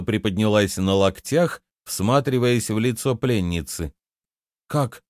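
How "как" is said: slow, higher, fearful question; frightened. A narrator's reading. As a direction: ask it in dawning fright. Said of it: "испуганно проговорила принцесса".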